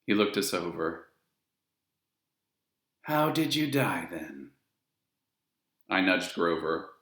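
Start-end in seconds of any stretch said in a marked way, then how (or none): 3.0-4.5 casual, falling away at the end; Charon, idle question. A narrator's reading. Ferryman questioning the children, offhand. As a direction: ask as a formality. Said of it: "He had a strange sound to him".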